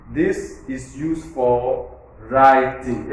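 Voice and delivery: slow, with "writing" stressed; drawn out, landing on "writing"; slow demo with stress on "writing"; new information stress. Shown as a demonstration. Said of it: "Everybody will hear".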